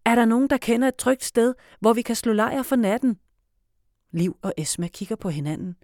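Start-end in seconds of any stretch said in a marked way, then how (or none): 0.0-3.2 raised voice to many people; addressing a crowd. A narrator's reading. Felix speaking to pretend neighbours, raised voice. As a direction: call out to an imagined crowd. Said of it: "hæver stemmen, som om han taler til mange".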